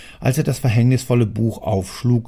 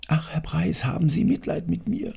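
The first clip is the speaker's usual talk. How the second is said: higher, half-whispered plea; pleading worker; 8 semitones higher, 3 dB quieter than usual. Acted. Worker begging the angry factory owner, timid and high. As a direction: beg for pity, frightened and small.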